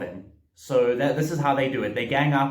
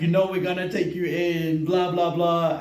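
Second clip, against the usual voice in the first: mocking cop; 3 semitones higher than usual. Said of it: "they're like".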